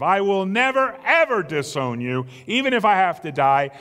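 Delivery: forceful double stress on "never" and "ever"; emphatic vow, punching "never" then "ever"; strongest insistence. Acted. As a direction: hit "never, ever" hard and keep driving through "die". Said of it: "He states it in the strongest terms".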